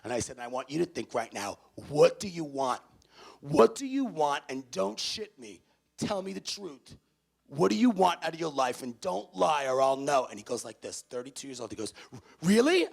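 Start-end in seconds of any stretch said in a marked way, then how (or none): 0.4-10.3 loud, pushy interrogation; in-your-face speaker. Acted. 12.4-12.9 high, loud startled "Really?". Retold or imitated. Matt startled.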